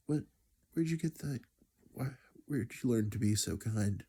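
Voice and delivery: a father moved, asking where this came from; a touch of awed surprise. Retold or imitated. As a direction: voice lifting high in amazed wonder. Dad's surprised question retold.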